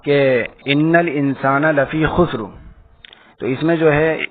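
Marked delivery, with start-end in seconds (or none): 0.6-2.4 measured recited verse; slow Quran recitation. Shown as a demonstration. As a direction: recite the verse slowly, with care. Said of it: "سورۃ العصر کی آیت ہے".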